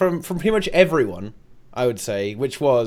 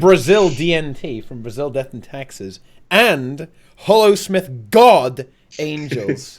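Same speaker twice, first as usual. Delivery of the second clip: guest introduction; 4 dB louder, slower than usual. Acted. Host announcing the guests.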